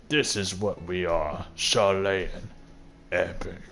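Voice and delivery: lightly voiced snooty father quoting duty; mocking pompous father. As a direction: drone it out like a smug elder. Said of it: "he's just like".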